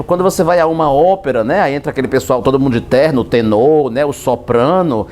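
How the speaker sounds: ordinary talk, nothing marked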